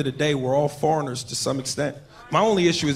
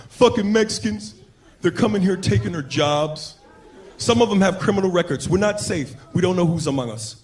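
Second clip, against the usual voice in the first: mock white complainer. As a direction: drag out the gripes.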